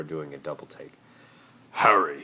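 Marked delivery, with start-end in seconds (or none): 1.7-2.2 forced calm. Acted. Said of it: "he said in a voice of forced calm".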